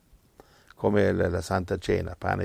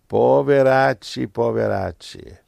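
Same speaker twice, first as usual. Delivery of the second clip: pitying laugh; 3 semitones higher, 5 dB louder than usual. Real, not acted.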